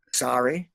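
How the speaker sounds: "Sorry" with long Canadian O, SORE-ee. Shown as a demonstration. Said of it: "they get us".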